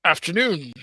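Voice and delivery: lightly gravelly big shopkeeper; a hint of a low, rough merchant; deep gravelly voice. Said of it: "Kind of a deep, gravelly voice that I do not have".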